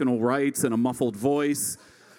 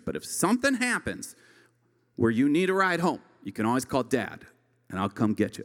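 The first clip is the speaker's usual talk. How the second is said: dad's speech; 2 semitones lower than usual. Retold or imitated. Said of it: "I'm gonna be like".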